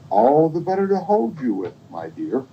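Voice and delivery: high-pitched disguised wolf; wolf posing as grandmother. Acted. Wolf answering about big paws, high put-on voice. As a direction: keep the granny imitation high.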